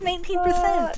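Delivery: loud high shocked nineteen percent; shocked exclaim. Real, not acted. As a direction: cry it out, stunned. Shocked at battery level.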